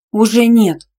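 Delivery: loud, high snap; snapping. A narrator's reading. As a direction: snap it back at him hard. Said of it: "рявкнула". (резко и громко рявкнуть)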